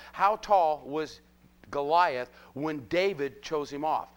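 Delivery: "How tall" stretched out and loud; slow, weighty question, leaning on "How tall"; emphatic question. Real, not acted. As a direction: punch "How tall", then spell it out slowly. Rhetorical question stressed, later repeated.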